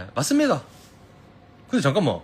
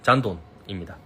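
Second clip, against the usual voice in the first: Seoul speech try; 6 semitones lower than usual. Shown as a demonstration. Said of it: "진짜 서울말 잘하긴 하는데".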